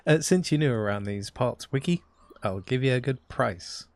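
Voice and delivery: put-on Southern-accented fisherman. Fisherman offering the newcomer a good price, Southern accent. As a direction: play a folksy Southern fish seller. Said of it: "he's got a southern accent".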